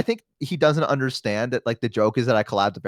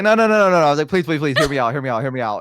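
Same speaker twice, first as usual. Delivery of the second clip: frantic pleading; 3 dB louder, faster than usual. Retold or imitated. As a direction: beg urgently to be heard. Acting out his frantic plea to roommate.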